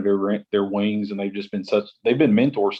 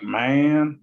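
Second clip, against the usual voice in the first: Texas drawl; 4 semitones higher than usual. Retold or imitated. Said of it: "that Texas Southern drawl".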